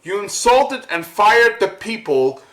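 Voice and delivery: building to a real shout on the last line; angry rant. Real, not acted. To Steven Dorff about his fired agents, angry shout. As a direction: let the outrage burst out. Ranting at the actor.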